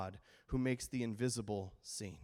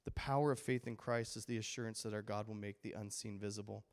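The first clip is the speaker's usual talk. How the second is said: softer, solemn restatement; earnest restatement; 4 semitones lower, 5 dB quieter than usual. Real, not acted. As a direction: let the key line land gently. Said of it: "repeated key statement, softer".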